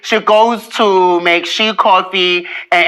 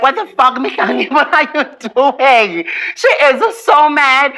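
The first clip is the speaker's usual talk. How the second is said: agitated disbelief; 6 semitones higher than usual. Retold or imitated. Reliving the attack.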